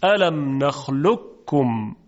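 الم نخلقکم slow with ق fully merged, doubled plain ک; full assimilation demo; full merger. Shown as a demonstration. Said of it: "خیلی راحت تلفظ کنیم".

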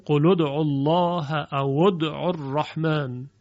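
قل ادعوا الله said qulu, او said awu; damma reading. Shown as a demonstration. Teacher shows what the Arab tribes say.

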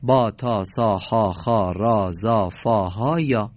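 با، تا with a long ā, recited in a row; Arabic letter names. Shown as a demonstration. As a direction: list bā, tā, sā, each clearly stretched. (تلفظ عربی با آ کشیده)

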